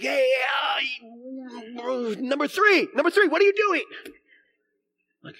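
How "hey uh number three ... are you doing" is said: high, loud mock dad yell; flustered dad yelling. Dad mixing up his kids' names, flustered yell. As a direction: holler at a kid while fumbling for the name.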